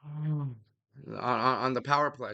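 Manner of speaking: breathless after a bike ride; puffing between words; out of breath. Real, not acted. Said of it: "sorry, I'm out of breath".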